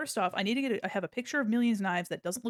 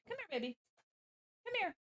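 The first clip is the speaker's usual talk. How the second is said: high, soft cooing call; coaxing a pet; 9 semitones higher, 9 dB quieter, faster than usual. Real, not acted. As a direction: coax your cat over sweetly. Calling the cat over.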